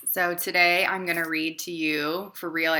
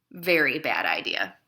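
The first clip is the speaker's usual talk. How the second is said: deadpan verdict; 3 semitones lower than usual. Acted. Deadpan refrain.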